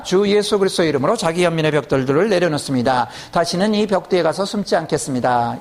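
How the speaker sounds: steady recited prayer declaration; measured declarative prayer cadence; model prayer. Shown as a demonstration. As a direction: recite it evenly, phrase after phrase, for others to follow. Demonstrates a model prayer for congregation.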